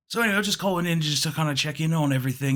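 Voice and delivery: put-on quick, rambling British old man; Britishy accent. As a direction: chatter on as a British caller. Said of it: "Britishy accent".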